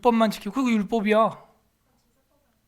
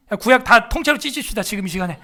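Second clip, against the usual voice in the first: mock rallying call; 4 dB louder than usual. Mock rally to tear Bible.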